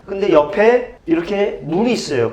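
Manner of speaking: normal talking voice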